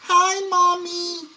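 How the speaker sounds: high, slow calling out; yelling across the room. Real, not acted. Child calling out to mom.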